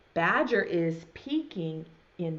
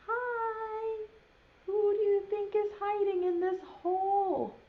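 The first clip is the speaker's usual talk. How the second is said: Bear's voice; 11 semitones higher than usual. Acted. Bear speaks in the story.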